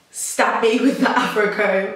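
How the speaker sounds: laughing nervously through the words. Real, not acted. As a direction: giggle it out, half embarrassed. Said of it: "I don't know why I'm laughing".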